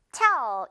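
"tell" punched out by itself; stressed syllable alone. Shown as a demonstration. Teacher isolates the block to stress, punched. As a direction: hit "tell" firmly as the strong first block. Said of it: "맨 앞부분 강세 주세요".

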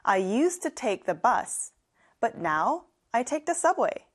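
very slow, carefully spaced English; slow classroom demo; slow model sentence. Shown as a demonstration. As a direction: lay out each word slowly for learners. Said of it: "model sentence in a lesson".

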